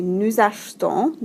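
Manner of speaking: "achetons" with the middle E nearly dropped. Shown as a demonstration. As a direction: say "achetons" as two syllables, ash-ton. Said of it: "that E kind of is dropped almost".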